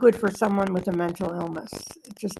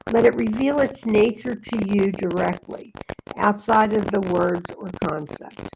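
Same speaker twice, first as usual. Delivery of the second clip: meditative reading. Acted. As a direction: read it as a calm inner guidance. Continues reading after interruption.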